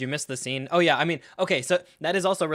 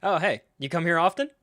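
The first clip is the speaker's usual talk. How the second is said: higher, breezy small-talk greeting; mock casual; 4 semitones higher, 4 dB louder than usual. Mocking Iroh's surprise arrival, overly casual. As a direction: greet them as if by chance. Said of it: "the casual".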